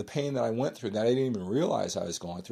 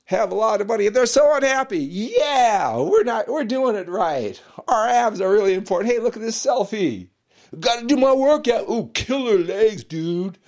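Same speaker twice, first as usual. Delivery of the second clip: mock gym bro; 11 semitones higher, 9 dB louder than usual. Vlogger mocking smug bodybuilders, higher and louder gym-bro voice. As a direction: play a cocky bodybuilder admiring himself.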